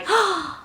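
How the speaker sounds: high mock gasp of joy; quick high intake of breath; delighted gasp. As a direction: gasp with sudden hope.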